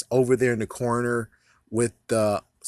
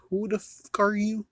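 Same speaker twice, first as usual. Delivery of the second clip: baffled outburst; 11 semitones higher than usual. Retold or imitated. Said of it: "I was like".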